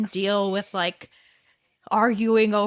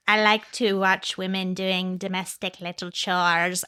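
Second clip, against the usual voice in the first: mock creepy husband voice; 3 semitones lower, slower than usual. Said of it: "his voice in the whole thing".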